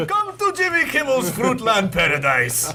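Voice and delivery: high cartoon toucan, laughing; hammy cereal mascot pitch; Toucan Sam voice. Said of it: "like Toucan Sam".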